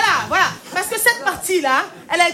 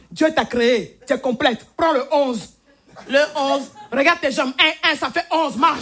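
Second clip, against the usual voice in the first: slow stern father; slower than usual. Retold or imitated. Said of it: "c'est mon père, ça".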